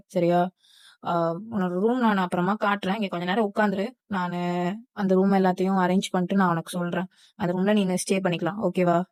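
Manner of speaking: hint of a reassuring senior's voice. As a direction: settle a nervous junior in, matter-of-factly.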